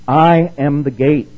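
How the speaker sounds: slow, loud I AM with a rising lift; emphatic I am. Shown as a demonstration. Preacher stressing Jesus' claim, slow emphatic words. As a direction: lean hard on I. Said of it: "Once again, emphatic".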